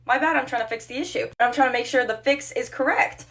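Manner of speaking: exasperated fake sorry; sarcastic apology. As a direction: apologize pointedly, not meaning it. Sarcastic mock apology to huffy customer.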